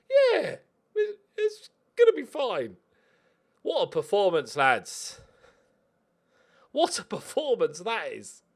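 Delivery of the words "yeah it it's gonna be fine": put-on camp German accent. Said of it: "turning to each other and going".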